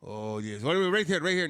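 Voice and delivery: high, loud eager vendor; mock eager seller; rug seller. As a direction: hurry them over to the rug. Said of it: "He's like".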